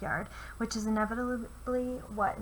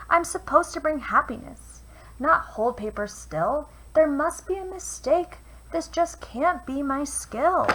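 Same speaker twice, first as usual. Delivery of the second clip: upset stone; 5 semitones higher, 6 dB louder than usual. Acted. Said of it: "he discovered he was a dull paperweight".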